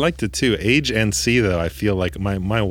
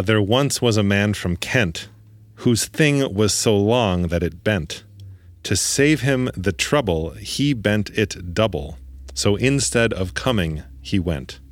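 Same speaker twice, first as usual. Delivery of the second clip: slow, measured poem reading; limerick recital; 2 semitones higher, slower than usual. Shown as a demonstration. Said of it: "the only limerick I know, which I will repeat for the listeners".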